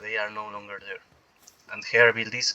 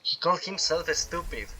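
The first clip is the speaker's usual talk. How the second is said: much softer, half to himself; a quiet echo of the punchline; softer repeat; 2 semitones higher, 9 dB quieter than usual. Real, not acted. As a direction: murmur it again in disbelief. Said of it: "repeats the punchline".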